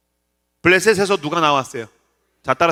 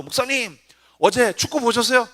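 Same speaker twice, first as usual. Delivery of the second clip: lightly acted eager young man, pitched higher; higher-voiced imitation of a keen churchgoer; young soccer fan; 4 semitones higher than usual. Young soccer fan approaching his pastor, lightly acted eagerness. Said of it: "그 청년 하나가 와서".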